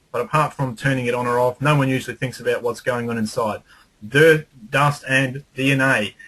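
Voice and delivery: upbeat advert read with only a little inflection; radio ad read. Shown as a demonstration. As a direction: sell it like a talkback promo, toned down. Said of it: "how I did that was".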